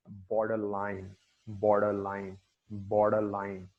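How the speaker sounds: borderline with BOR primary, line secondary; stress on BOR. Shown as a demonstration. Teacher demonstrating compound stress on borderline. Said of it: "बॉ first वाला और लाइन third वाला".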